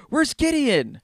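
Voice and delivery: lightly hammed-up outraged question; mock indignant fan. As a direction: play the wronged fan. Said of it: "I'm like".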